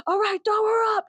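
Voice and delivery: high, loud mock holler; called-out command. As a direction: holler it to the crowd. Acts mosh pit guy calling out.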